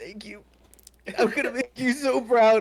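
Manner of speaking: very high-pitched, very loud, tearful sobbing. A character thanks someone after expertly loading a gun, crying. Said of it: "Immediately starts crying".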